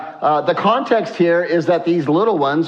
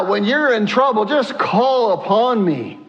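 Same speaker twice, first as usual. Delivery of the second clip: God's urging; 5 semitones higher than usual. Acted. Voices God paraphrasing the verse.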